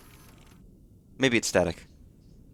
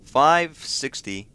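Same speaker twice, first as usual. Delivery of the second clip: drawn out; 3 semitones higher, 5 dB louder, much slower than usual. Real, not acted. Reading coordinates in a sub game.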